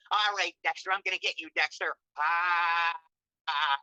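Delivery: drawn-out villain threat then a long stage laugh; old villain laugh. Shown as a demonstration. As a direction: ham up the cartoon villain with a slow laugh. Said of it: "I had an old stage of laugh".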